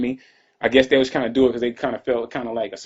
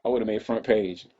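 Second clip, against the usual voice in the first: slow, softer muttered repeat; quiet aside; 5 dB quieter, slower than usual. Acted. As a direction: drop it under your breath to yourself.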